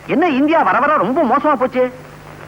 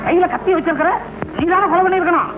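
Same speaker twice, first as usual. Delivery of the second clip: accusing; 6 semitones higher than usual. Acted. Inspector accuses suspect with knife.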